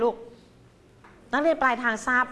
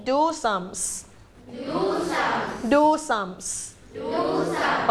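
drawn-out "do sums do sums"; slow model phrase; 2 semitones higher, much slower than usual. Shown as a demonstration. Teacher leading a class repetition slowly. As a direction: say "do sums" slowly and clearly for copying. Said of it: "repeat after me".

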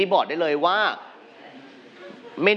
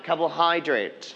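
"carbohydrate" with the weight on "hy"; stress on third syllable. Shown as a demonstration. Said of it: "We are going to stress on the third syllables". (เน้นพยางค์ "hy" ใน "carbohydrate")

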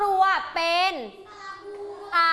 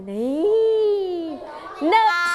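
excited call; 2 semitones higher, much slower than usual. Acted. Calling on a lucky child.

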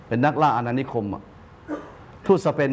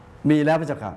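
humble envoy; 3 semitones higher, slower than usual. Retold or imitated. Envoy answering the king.

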